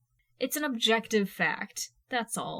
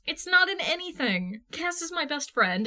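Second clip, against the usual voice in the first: emphatic insistence; 7 semitones higher than usual. A narrator's reading. Steph insisting to Jason about Cass, emphatic and raised. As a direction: insist she's only a friend.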